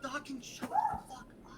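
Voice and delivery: high fast snapping sibling; squeaky snapping voice. Acted.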